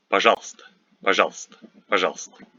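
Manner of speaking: пожалуйста said "pa-ZHAL-sta"; dropped middle sounds. Shown as a demonstration. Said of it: "we don't pronounce this U and Е".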